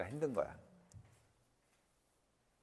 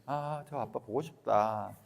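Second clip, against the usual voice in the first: slow longing; slower than usual. Retold or imitated. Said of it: "이렇게 바뀐다고".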